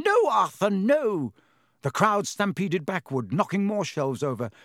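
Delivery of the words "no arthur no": high, loud cry of alarm; shrieking. A narrator's reading. Missus Weasley begs her husband to stop fighting, shrieking. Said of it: "Missus Weasley was shrieking".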